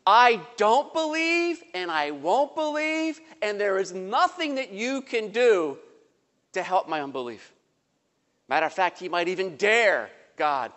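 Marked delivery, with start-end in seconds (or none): 0.0-7.5 defiant skeptic. Acted. Skeptic defiantly voiced in sermon.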